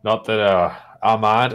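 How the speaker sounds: gruff Cornish-tinged orc voice; gruff orc farmer. Acted. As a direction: tell it as a rustic, gruff orc.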